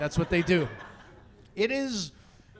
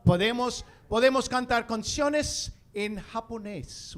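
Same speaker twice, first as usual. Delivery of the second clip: Spanish phrase. Shown as a demonstration. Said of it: "things that I know how to say".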